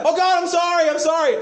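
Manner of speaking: mimicking a shallow apology to God; mock pleading apology. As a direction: beg like a caught child, hammed-up. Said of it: "And we go like".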